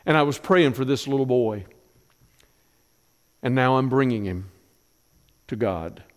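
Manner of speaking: put-on a mother giving up her boy, trying to hold steady; Hannah to Eli. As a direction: Hannah to the priest, fading to a hush. Hannah voiced speaking to Eli.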